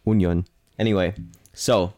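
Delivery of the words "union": put-on German accent. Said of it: "I said it in a German accent".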